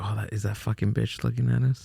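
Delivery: hushed half-whisper, very close up. Retelling what a girlfriend said about a staring neighbor: imitating someone half-whispering. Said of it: "she was all whispering to my ear".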